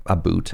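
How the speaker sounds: "a boot" with a long oo; mock-Canadian "boot". Shown as a demonstration. Streamer quoting how Americans hear Canadian "about", exaggerated oo. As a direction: say "a boot" with an oo as in food. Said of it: "I say about".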